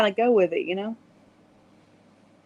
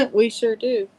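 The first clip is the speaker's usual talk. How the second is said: laughing agreement; slower than usual. Real, not acted. Agreeing with a friend about southern talk, laughing. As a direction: chuckle through the words, amused. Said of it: "We all talk like this down south".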